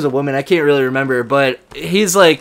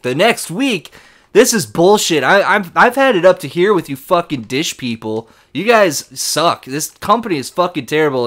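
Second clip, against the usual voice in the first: retold angry customer yelling at the rep; 2 semitones higher than usual. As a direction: imitate a fed-up caller ranting.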